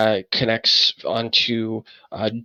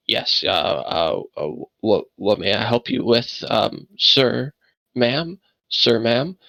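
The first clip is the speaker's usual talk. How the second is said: hesitant man's voice; slower than usual. Acted. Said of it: "you hear a man's voice".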